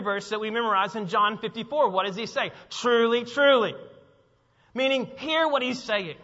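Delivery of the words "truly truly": "Truly, truly" loud, each word set apart; emphatic declaration. Acted. Preacher quoting Jesus to congregation, loud and emphatic. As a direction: land hard on each "truly".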